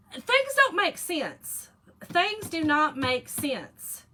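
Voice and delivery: slow, high and loud, every word weighed; emphatic complaint. Real, not acted. To viewers, a slow emphatic gripe about menopause. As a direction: lay it down slowly, word by word.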